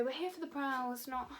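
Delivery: accidental odd voice; odd-sounding slip. Real, not acted. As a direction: say it slightly oddly, then break off. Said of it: "why did I sound like that".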